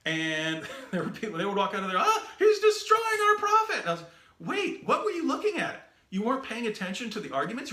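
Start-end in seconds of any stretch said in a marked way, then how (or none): 2.0-3.8 very high, loud awed cry; impressed audience member, far higher and louder; excited exclamation. Retold or imitated. Impressed Muslim audience reacting. 4.4-7.7 high, baffled protest; can't believe what they heard; astonished retort, pitched up high; incredulous. Retold or imitated. His baffled reply to audience.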